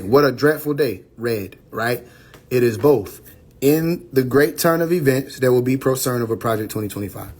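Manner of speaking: measured, solemn reading of a prophecy; prophetic reading. Acted. Reading his book's prophecy to viewers, solemn. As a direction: read it like scripture, each line weighed.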